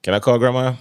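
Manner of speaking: lightly voiced daughter asking a favor. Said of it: "My daughter, she take my phone".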